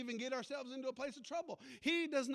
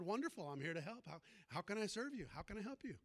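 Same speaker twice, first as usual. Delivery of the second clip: gentle Jesus; 3 semitones lower, 7 dB quieter than usual. Acted. Jesus voiced in sermon story.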